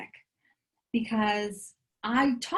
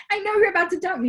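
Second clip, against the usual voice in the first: mock panic; 9 semitones higher, 5 dB louder, faster than usual. Panicking girlfriend voiced in story.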